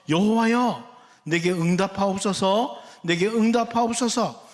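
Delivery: earnest appeal. Acted. Elijah calls on the Lord, earnest appeal. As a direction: call on God for an answer. Acts out Elijah's prayer to God.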